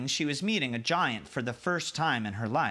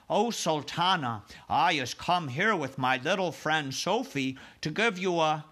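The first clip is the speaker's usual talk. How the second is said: eager giant voice; 4 semitones higher than usual. Acted. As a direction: lay the flattery on thick. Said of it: "cried the B F G".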